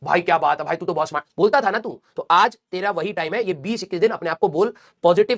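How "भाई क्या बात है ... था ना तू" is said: self-praise. Retold or imitated. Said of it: "अपने आप को कई बार शाबाशी दी है".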